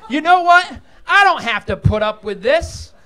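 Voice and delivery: indignant, drawn-out exit line; huffy blind fella. Pretend. Blind fella quitting the kitchen, hammed-up huffy exit. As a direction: storm off in mock offence. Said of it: "one impression I can do".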